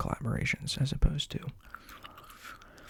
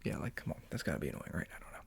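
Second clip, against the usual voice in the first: ASMR whisper. Real, not acted. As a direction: whisper gently into the mic.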